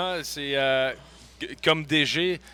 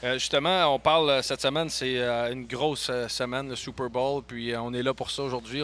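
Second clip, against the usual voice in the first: chewing while talking. Real, not acted. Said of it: "c'est dur de parler en mangeant des".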